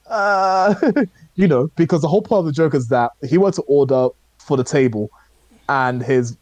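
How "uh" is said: high, drawn-out mock "uh"; stumped "uh". Diner stuck on a thick-accented request, mock stumped. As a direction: imitate someone stuck for an answer, pitched up high. Retold punchline, Trevor is stumped.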